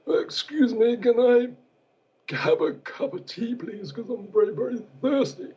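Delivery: Prince Philip impression. Interviewee mocks Prince Philip on air, high grating voice. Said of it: "do you want me to do an impersonation of how he speaks".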